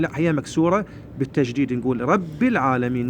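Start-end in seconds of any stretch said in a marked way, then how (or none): 2.0-3.1 رب العالمين as "rabbil", doubled b with "i"; careful model, "rabbi" in رب العالمين; kasra on ba. Shown as a demonstration. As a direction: slowly link رب to العالمين with an "i". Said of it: "نكسرها".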